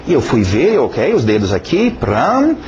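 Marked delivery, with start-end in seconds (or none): 1.9-2.6 high vocal strum "pram"; mimicked chord sound; imitated guitar strum. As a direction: voice a guitar chord, higher pitched.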